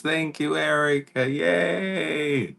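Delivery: excited greeting. Acted. Greeting a character called Erica.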